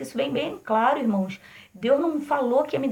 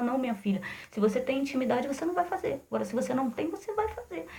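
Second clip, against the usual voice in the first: softer, intimate voice of God answering; God speaking softly; 6 dB quieter, faster than usual. Retold or imitated. God gently warning his daughter, softer voice. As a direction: hush down as God speaking inside you. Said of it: "Deus vai falar contigo no profundo".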